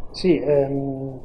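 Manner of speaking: phone-recorded interview audio; tinny cellphone recording; low quality stream. Real, not acted. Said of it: "ci scusiamo per la qualità dell'audio".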